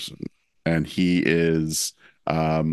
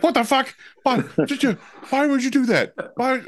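exasperated Will; faster than usual. Retold or imitated. Friend reacting to a face caress, high exasperated outburst. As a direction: squeal out a baffled complaint. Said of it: "he's like".

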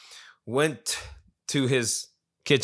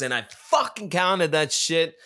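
imitating an excited friend, higher at first; excited retelling; 4 semitones higher than usual. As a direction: blurt it like a thrilled buddy, then settle. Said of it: "he was so excited".

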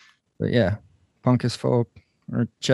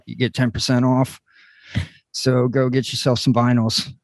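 lightly imitated podcast host reading a sponsor spot; Trev impression. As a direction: gently mimic a friend's casual ad read. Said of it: "you just did a great impression of me".

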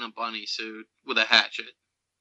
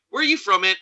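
much higher, mocking kid voice; 8 semitones higher, 4 dB louder than usual. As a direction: make fun of the kid from the woods. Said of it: "them kids in the wood when they're making fun".

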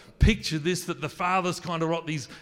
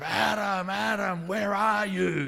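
higher and louder, God calling in a rage; loud aggressive angry voice; 6 semitones higher, 4 dB louder, slower than usual. Shown as a demonstration. Preacher shows the feared angry God, loud and furious. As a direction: bellow the name like a furious father. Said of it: "a loud, aggressive, angry voice".

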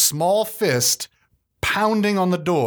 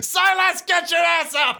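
angry shout. Acted. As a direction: bellow to wake the sleeper. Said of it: "He pounds again on the door".

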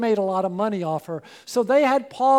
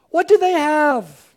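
wondering repeat; 5 semitones higher, 7 dB louder than usual. Acted. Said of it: "Wouldn't it be great if we did?".

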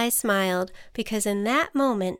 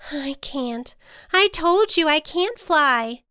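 lightly voiced butterfly, frustrated; exasperated protest; 6 semitones higher, 3 dB louder than usual. A narrator's reading. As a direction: start small, then insist. Butterfly protests she cannot fly.

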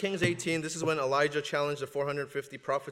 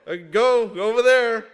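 shooing away; 7 semitones higher, 12 dB louder than usual. Retold or imitated. Shooing away others' anxieties.

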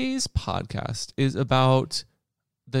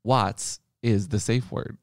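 realizing commenter. Retold or imitated. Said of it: "They'll be like".

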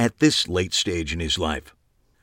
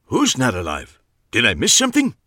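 put-on gravelly old man; 4 semitones higher than usual. A narrator's reading. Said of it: "The gravelly voice".

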